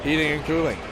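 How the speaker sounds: smooth sponsor plug, brisk; ad read. Acted. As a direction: read it like a radio ad.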